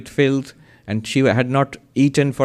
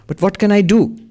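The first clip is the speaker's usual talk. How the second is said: higher and louder, a desperate cry of helplessness; anguished plea; 7 semitones higher, 4 dB louder than usual. Acted. Monk crying out to the voice in his dream, desperate plea. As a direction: throw up your hands in the voice, pleading.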